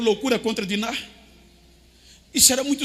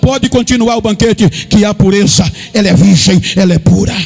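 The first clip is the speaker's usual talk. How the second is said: loud, raised, driving preacher delivery; full-force preaching; 3 semitones higher, 7 dB louder than usual. Real, not acted. Preacher to congregation on the wedding banquet, full-force preaching. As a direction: preach it out at full volume, building.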